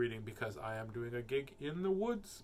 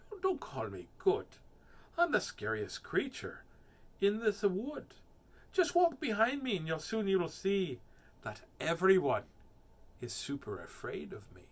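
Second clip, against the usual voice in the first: rising higher and louder as he brags; boastful mouse; 5 semitones higher, 4 dB louder than usual. Acted. Mouse bragging to the Gruffalo, rising boastful voice. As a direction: puff up like the scariest creature.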